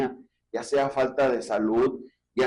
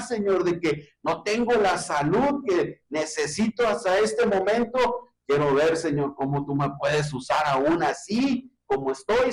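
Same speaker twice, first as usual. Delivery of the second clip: fervent prayer. Acted. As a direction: pray it out with growing longing, then settle. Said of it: "En lugar de decir".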